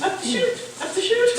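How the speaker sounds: high, urging cattle call; herding call. Retold or imitated. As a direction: drive the cows along with your voice. Herding cows up the chute.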